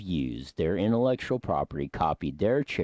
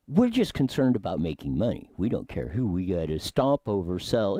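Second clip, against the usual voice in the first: lightly voiced hillbilly accent. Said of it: "giving my hillbilly dialect of it".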